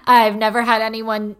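loud, embarrassed blurt. Retold or imitated. Student admitting to her mentor she's been challenged, embarrassed. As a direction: burst out loudly, replaying the embarrassment. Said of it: "so intimidated that I was embarrassed".

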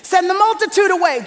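disciples' demand. Retold or imitated. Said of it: "the disciples have another solution".

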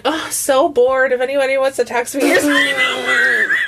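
mock bored late-night come-on; bored flirty voice. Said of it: "was like".

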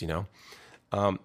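ordinary talk

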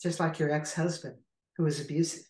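understated, gentle retelling. Retold or imitated. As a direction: say it gently, without accusation. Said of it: "very gently heard him say".

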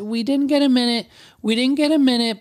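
a hint of a woman making excuses; female voice. Guest excusing himself to the receptionist, light female voice. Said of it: "the female voice".

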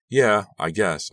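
unsure reply. A narrator's reading. Unsure answer to worried dad.

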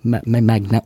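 trips over the word magna- in broken tries; fumbled attempt at magnanimous; stumbling attempt. Real, not acted. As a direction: stammer out ma- ma- magna- as if unsure of the word.

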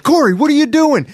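put-on high, loud Southern-accented call; referee in Southern accent. Referee calling out a wrestler mid-kick, high Southern accent. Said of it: "the ref's like".

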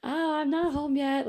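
lifted, innocent phone voice. Retold or imitated. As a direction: sound sweet and surprised on the phone. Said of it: "I'm like".

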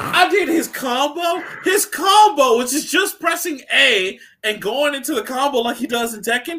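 high, worked-up retelling; retold amazement. Gamer telling friends about Kazuya's combo, high incredulous excitement. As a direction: pitch jumps up in giddy disbelief. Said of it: "I was just like".

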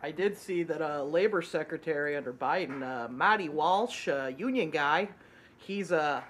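lightly put-on Boston accent; a half-hearted attempt at a Boston accent; shitty Boston accent. Co-host reporting on the labor secretary, mock Boston accent. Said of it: "stop my shitty Boston accent".

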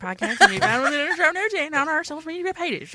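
put-on Boston accent sliding into British; Boston accent, came out British. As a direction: try Boston, slip British. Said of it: "supposed to be Boston accent".

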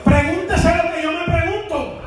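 high-pitched preacher mimicking hesitant believers; mocking preaching. Preacher acting out believers who keep praying over obvious duties, mocking.

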